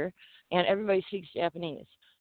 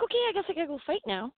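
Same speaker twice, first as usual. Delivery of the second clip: hurried resigned quote; 10 semitones higher, faster than usual. Retold or imitated. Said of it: "I'm like".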